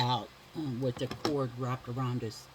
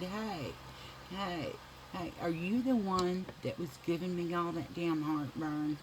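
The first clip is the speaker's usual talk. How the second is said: tender; 4 semitones higher, 3 dB quieter than usual. Retold or imitated. Greeting newborn tenderly.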